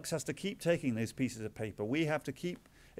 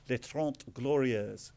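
slow, careful French pronunciation of les Trente Glorieuses; lightly put-on French accent, unhurried; slower than usual. Shown as a demonstration. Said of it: "I apologize for my terrible French accent".

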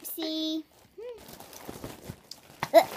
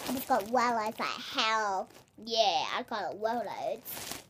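funny voice; 2 semitones lower, slower than usual. Real, not acted. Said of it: "I try to talk funny".

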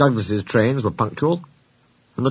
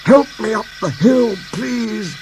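panting; 12 semitones higher, slower than usual. A narrator's reading. James asking for help uphill, lightly panting. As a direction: plead as if short of breath. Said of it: "panted James".

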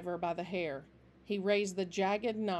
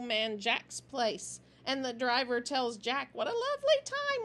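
needling smirk; 7 semitones higher than usual. A narrator's reading. Squint needles the leader.

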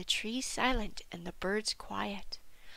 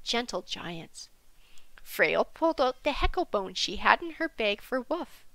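ordinary delivery, nothing marked

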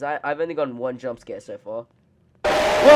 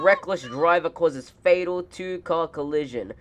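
reading a headline. Acted. Reads a news headline aloud.

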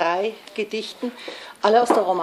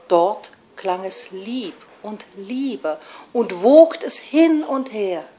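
put-on measured verse with swelling accents and pauses; lilting, unhurried love poem; lyrical poetry recitation; slower than usual. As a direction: recite a romantic lyric expressively.

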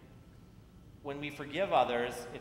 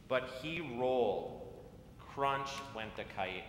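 put-on reading to children. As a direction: read it like storytime on the church steps. Reads picture book to children.

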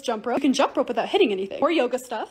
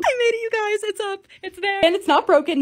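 excited; 5 semitones higher than usual. Real, not acted. Triumph after carrying mirror.

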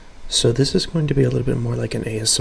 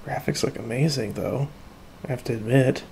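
hushed; 12 dB quieter than usual. Real, not acted. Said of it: "I need to talk in a very low voice".

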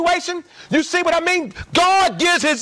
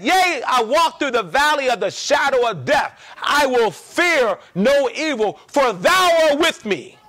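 declaimed scripture. Retold or imitated. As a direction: proclaim it like a psalm. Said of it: "Listen, when he said".

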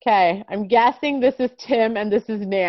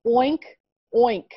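pig oink. Shown as a demonstration. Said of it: "how do we say this?".

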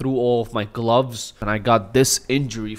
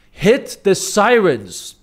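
eager demand; 8 semitones higher, 6 dB louder, much slower than usual. Retold or imitated. Ordering the ambulance guy.

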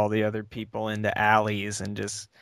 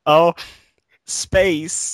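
alien voice; 7 semitones higher, 6 dB louder than usual. Pretend. Follow-on alien voice.

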